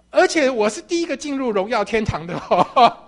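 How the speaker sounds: 而且我是第一个进入荣耀 said giggling, loud; chuckling, proud; laughing boast. Acted. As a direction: laugh through the words 而且我是第一个进入荣耀. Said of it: "我是第一个进入的".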